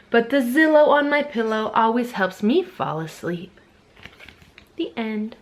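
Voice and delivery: rhythmic picture-book reading, savouring the rhymes; lilting read-aloud with stretched key words; reading to children. Acted. Dad or mom reading favorite books to Capri, reading to children.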